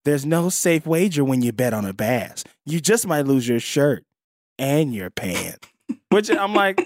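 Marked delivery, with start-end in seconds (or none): 0.0-5.7 breathless gossip. Retold or imitated. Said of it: "From my voiceover".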